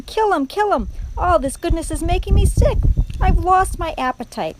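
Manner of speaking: high, loud goading; heckling shout. A narrator's reading. Rat sickened by goodness, shouting. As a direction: protest in theatrical disgust. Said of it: "shouted Bott-, Botticelli again".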